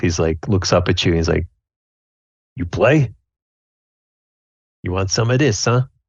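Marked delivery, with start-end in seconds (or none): 2.6-5.8 rough, gruff, burly dwarf voice. Voicing a burly dwarf at a game table inviting a player. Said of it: "he's like this burly dwarf".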